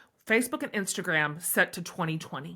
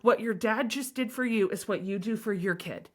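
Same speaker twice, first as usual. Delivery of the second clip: warm; 3 semitones higher than usual. Retold or imitated. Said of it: "And I was like".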